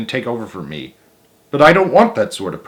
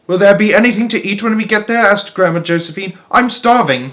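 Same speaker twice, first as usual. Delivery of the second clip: put-on high quavery old woman asking; old grandmother; 9 semitones higher, 4 dB louder than usual. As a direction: play a fretful hungry grandma. Grandma Josephine voiced high.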